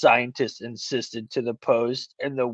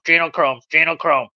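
flat, repeated robot chant; faster than usual. Retold or imitated. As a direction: drone it like a speech computer. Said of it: "with his little robot voice".

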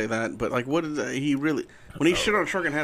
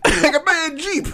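put-on African accent; 10 semitones higher, 3 dB louder than usual. Riffing in African character.

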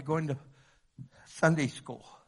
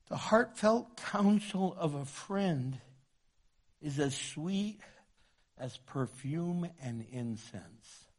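scripture reading; slower than usual. Acted. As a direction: savour each word of the verse. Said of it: "Look what it says".

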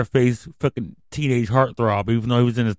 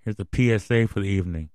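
soft, choked-up goodbye; quiet emotional farewell to listeners; heartfelt sign-off; 3 semitones lower, 5 dB quieter than usual. Real, not acted. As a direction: hold back the emotion as you sign off. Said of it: "to not get very emotional on this microphone".

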